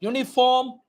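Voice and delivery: slow, clearly mouthed letter drill; teacher drilling phonetic alphabet; slow dictation. Shown as a demonstration. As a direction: model every sound slowly. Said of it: "look at my mouth movement".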